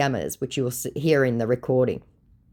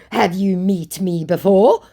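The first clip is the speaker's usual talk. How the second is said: "Have you met me before?" loud and higher; emphatic question; 4 semitones higher, 6 dB louder than usual. Acted. Scammer testing the host, "Have you met me before?" as emphatic question. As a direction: push "before?" as a pointed question. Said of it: "Question mark, question mark".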